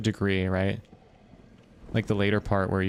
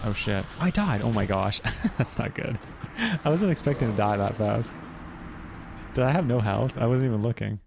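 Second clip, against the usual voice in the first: panicking gamer; 2 semitones higher than usual. Real, not acted. Sudden death in game.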